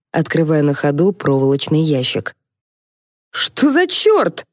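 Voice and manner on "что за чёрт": much higher, slow outraged cry; indignant yell. A narrator's reading. Полковник под сачком возмущённо вопит. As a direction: howl in indignation. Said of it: "возмущённо завопил Дегтярев".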